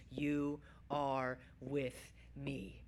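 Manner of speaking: very slow, low and soft; spaced-out words, quiet and weighty; hushed reverence. Acted. Pastor sums up the whole Bible, hushed reverence. Quotes the four simple words.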